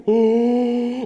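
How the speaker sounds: high, loud, drawn-out "oh"; epiphany. Acted. Mary suddenly realizing who it is, astonished. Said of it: "like, the epiphany".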